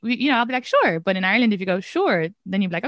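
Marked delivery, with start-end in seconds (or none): 0.7-1.0 upbeat, agreeable falling "Sure", pitched higher; willing, uncomplicated "Sure"; sincere, positive. Shown as a demonstration. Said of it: "you don't mean it sarcastically". 1.8-2.3 understated sarcastic "Sure" that means the opposite. Shown as a demonstration. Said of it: "you're being sarcastic".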